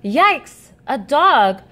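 high frightened yelp; a touch of panicked squealing. Acted. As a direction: cry for help in a panic. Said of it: "the cat squealed in panic".

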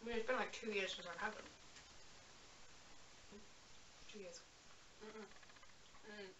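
chewing while talking; talking around candy; mouth full. Real, not acted. Seen 0: Left speaker puts candy in mouth mid-phrase, talks while chewing.

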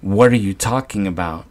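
in a rage, demand she speaks plainly; enraged son demanding a clear answer. Acted. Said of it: "I stood up in a rage".

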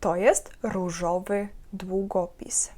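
slow, careful dictation pace. Shown as a demonstration. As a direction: spell it out slowly for students. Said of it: "повторювати за мною". (повільне диктування)

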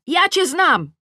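high, loud yell; shout. A narrator's reading. Tosia quarrelling from upstairs, shouting. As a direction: throw it back at full voice. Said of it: "krzyczy Tosia".

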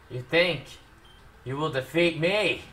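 hammed-up almighty villain, building to a loud drawn-out finish; mock villain boast. Player taunting the game foe, mock villain boast.

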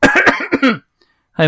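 loud, high hammed-up movie voice. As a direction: greet him like a cheesy movie star. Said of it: "we're gonna be doing up with movie voices".

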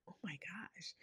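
breathless whispered gasp of relief. Retold or imitated. Remembering the friend praying with her, whispered.

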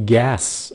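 "gas" ending in a voiceless s; S sound. Shown as a demonstration. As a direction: hiss the final S of "gas". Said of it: "âm S".

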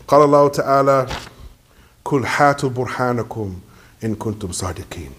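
formal liturgical Arabic; Arabic verse recitation. Real, not acted.

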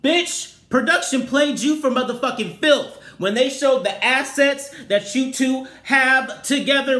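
high, loud outraged yelling; furious rant. Real, not acted. Shouting at Todd on the show, outraged. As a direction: tear into him at full volume. Ranting at a reality show husband.

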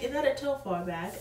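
a hint of a British lady asking about the bag; British accent. British lady asks about the bag, light British accent. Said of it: "'Cause she was British".

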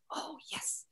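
breathy imitated casting whisper, very soft; mock whisper. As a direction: whisper it like a pleased casting director. Casting people reacting to headshot.

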